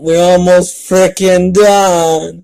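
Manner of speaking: high, loud, slow groan of relief; exasperated. Real, not acted. Reader fed up with the fanfic, exasperated and loud. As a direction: drag it out, fed up.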